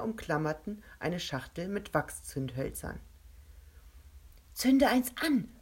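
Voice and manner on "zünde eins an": loud, higher and slow, every word pressed out; calling out. Acted. Kovac calling to Rebecca to strike a match, loud and slow. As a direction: call across to her while trapped in the web. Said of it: "rief er Rebecca zu".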